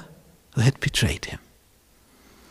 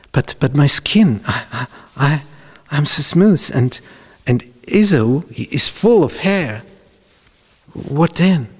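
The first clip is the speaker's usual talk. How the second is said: stammering, higher-pitched worried son; worried protest; 5 semitones higher, 3 dB louder than usual. Acted. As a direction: object nervously, tripping over the first words. Jacob anxiously objects to mother.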